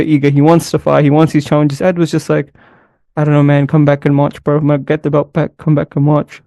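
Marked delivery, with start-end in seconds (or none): 3.2-6.4 amateurish attempt at a fighter's accent; half-hearted accent impression of an unenthusiastic fighter; Leon Edwards' accent, badly done. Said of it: "That was a horrible accent".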